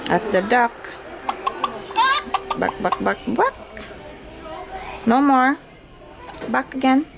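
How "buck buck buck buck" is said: short, playful mock clucks; chicken clucking. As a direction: imitate a hen clucking for a baby. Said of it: "And the chicken".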